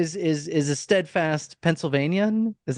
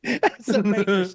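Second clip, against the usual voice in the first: put-on Chicago accent. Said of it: "those guys from Chicago".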